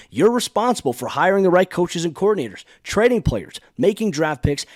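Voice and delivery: upbeat sponsor read, each selling point punched a little. Acted. Host reads the sponsor spot to listeners, upbeat ad-read voice. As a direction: sell the game to the listeners like a pitch.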